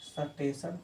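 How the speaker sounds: सटेशन said sa-teshan with a rising end; sa-teshan, vowel inserted into सटेशन; rustic pronunciation. Shown as a demonstration. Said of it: "कोई बोलता है सटेशन". (देसी उच्चारण में सटेशन)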